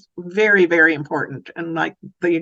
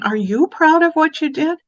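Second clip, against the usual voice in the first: 1 eager question; 8 semitones higher, 3 dB louder than usual. Shown as a demonstration. Demo question to child.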